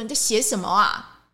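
lightly imitating an annoyed senior telling off a trainee; unhappy senior cutting the trainee off, mildly imitated; irritated senior scolding. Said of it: "他就不开心了".

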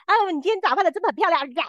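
mocking a leering man's fake charm; creepy flatterer. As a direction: ham up a sleazy guy's compliment. Mimicking creepy date's flattery.

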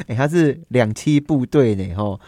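ordinary delivery

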